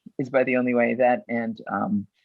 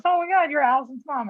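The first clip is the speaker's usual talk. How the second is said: excited fan. Retold or imitated. Fans recognising her again.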